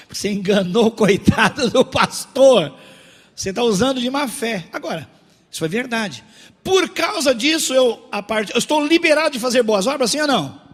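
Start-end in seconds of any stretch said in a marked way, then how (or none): 0.1-4.7 loud accusation, acted out; indignant scolding. Pharmacy owner rebuking a man who tricked the pastor, loud and indignant. 6.6-10.6 loud, high rhetorical challenge; full-force preaching. Real, not acted. Preacher asking the church about good works, loud and challenging.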